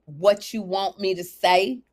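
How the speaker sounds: badly faked English accent, slow. Shown as a demonstration. Host showing she can't do it, shaky-attempt English accent. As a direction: stretch it out slowly in a failed English accent. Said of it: "That's not even English".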